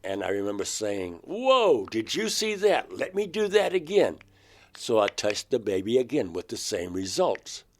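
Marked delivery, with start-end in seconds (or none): 1.2-4.2 retold astonishment, much higher; a boyish rush of wonder; amazed excitement. After feeling static from the baby, he cries out in amazed excitement.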